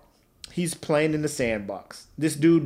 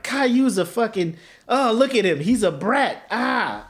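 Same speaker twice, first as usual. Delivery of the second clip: mocking onlookers; 6 semitones higher than usual. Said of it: "everybody's like".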